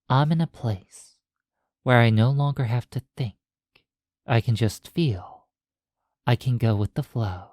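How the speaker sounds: measured hypnosis voice with long pauses; hypnotic guiding. Acted. Hypnotist guiding a listener across the threshold into the mind, hypnotic guiding. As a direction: lead them gently inward, one phrase at a time.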